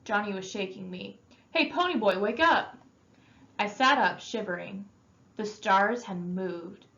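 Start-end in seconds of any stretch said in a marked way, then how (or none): 1.5-2.8 higher, urgent call to wake a sleeper; urging a sleeping friend to wake up. Acted. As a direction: shake him awake with your voice. Johnny waking him.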